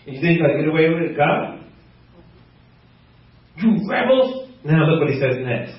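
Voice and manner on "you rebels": higher mock rebuke; lightly acted scolding; angry Moses. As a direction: act out a leader's indignant name-calling. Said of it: "'cause he was so angry".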